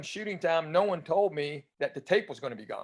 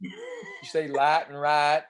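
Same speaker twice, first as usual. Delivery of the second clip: East Tennessee accent; much slower than usual. Shown as a demonstration. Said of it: "I used to talk like this".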